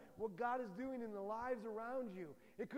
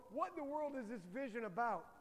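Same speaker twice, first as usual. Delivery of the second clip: loud confused exclamation; 6 dB louder than usual. Retold or imitated. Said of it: "The moment you go".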